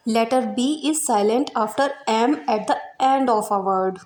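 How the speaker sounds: slow, clear reading of a rule; dictating a grammar rule; slow rule dictation. Shown as a demonstration. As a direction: read it out slowly for students to note down. Reads rule slowly.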